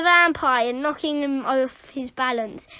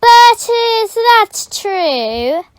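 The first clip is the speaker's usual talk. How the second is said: loud, slow stern demand; stern question; 7 semitones higher, 11 dB louder, slower than usual. Acted. Glaring teacher to pupil, slow stern question. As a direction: demand the truth.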